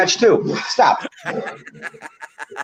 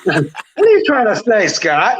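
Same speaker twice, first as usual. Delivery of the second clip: laughing; 3 semitones higher than usual. Real, not acted. Co-host teased about biased refereeing, laughing. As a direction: ask it through a laugh. Mock offence at co-host's teasing.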